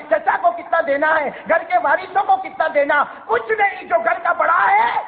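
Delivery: impassioned preacher; fiery preaching. Real, not acted. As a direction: preach it hard to the congregation. Preaching with rising force.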